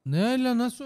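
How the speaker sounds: shocked "what the" yelp; indignant yelp. Real, not acted. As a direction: burst out in disbelief. Frustrated outburst, no ball.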